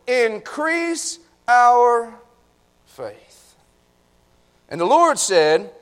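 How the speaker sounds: measured, emphatic Bible reading; scripture reading. Acted. Preacher reads Jesus's warning to the congregation, emphatic scripture reading. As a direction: read out scripture with full projection.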